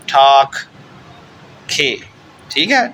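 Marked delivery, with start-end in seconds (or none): 0.1-0.6 ٹھاک ending in a breathy kh; final g as kh. Shown as a demonstration. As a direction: say ٹھاک loudly, closing on kh instead of g. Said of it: "یہ کھے کی آواز دے گا".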